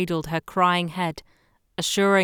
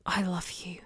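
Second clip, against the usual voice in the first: soft sweet whisper; 8 dB quieter than usual. Acted. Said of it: "she whispered sweetly afterwards".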